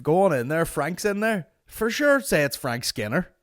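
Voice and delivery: high, loud mock bloke; mock the guy's breezy wave-in; mock staff guy. Ranting to mate about the staff guy, high mocking voice. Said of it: "I was like".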